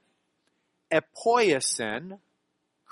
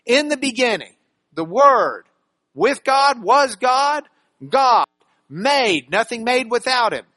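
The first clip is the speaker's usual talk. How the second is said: each key word set apart and punched louder; listing key words; 3 semitones higher, 4 dB louder than usual. Shown as a demonstration. Pastor recapping the key words, hitting each one. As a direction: tick off "Word", "God", "made" one by one. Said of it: "So we've got these words".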